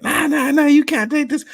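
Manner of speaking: put-on high-pitched sing-song kid taunt; mocking, high child voice; trash talk. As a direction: imitate a cocky kid's needling. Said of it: "kept talking and talking".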